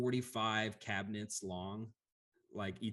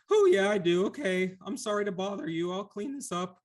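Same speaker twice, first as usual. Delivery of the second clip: timid Lemure; 10 semitones higher, 7 dB louder than usual. Acted. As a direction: squeak it out like a weepy blob creature. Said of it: "And the Lemure goes".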